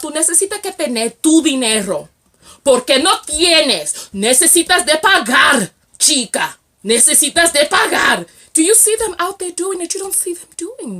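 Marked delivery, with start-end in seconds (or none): 0.0-8.3 loud, higher mock Latino delivery in Spanish; Latino man, Spanish. Vlogger mimics Latino men demanding payment, emphatic Spanish accent. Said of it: "Do you see Latino men who have money talking about".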